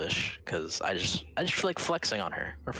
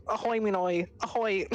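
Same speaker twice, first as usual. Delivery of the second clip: high, squeaky cartoon doodle voice; Doodle Bob voice; 13 semitones higher, 3 dB louder than usual. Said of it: "mine will sound like the ... Doodle Bob".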